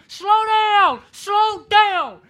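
high, very loud desperate hollering. Retold or imitated. Towed on mower begging wife, high desperate hollering. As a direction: scream it at the van ahead. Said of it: "I'm hollering".

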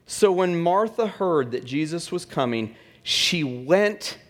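ordinary talk, nothing marked

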